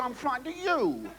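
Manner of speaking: high, mock-timid girl's voice; a wide-eyed scared girl; frightened girl. Comic telling: girl tells the soldier she fears him, high and timid.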